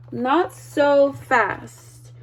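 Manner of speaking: slow, menacing hiss; strict new teacher stops the kids, slow and hissing; unpleasant hiss. Acted. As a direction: hold the warning back slowly. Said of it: "hissed an unpleasant voice".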